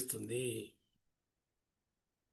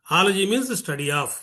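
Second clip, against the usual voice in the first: each word drawn out slowly for the class; slow explaining; much slower than usual. Shown as a demonstration. Teacher explaining a word root to students, very slowly. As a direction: lay the meaning down word by word.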